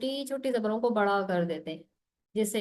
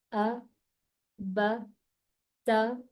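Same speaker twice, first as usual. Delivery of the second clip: slow, calm reading; much slower than usual. Shown as a demonstration. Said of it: "इसको अब मैं slow पढ़ के दिखाऊं".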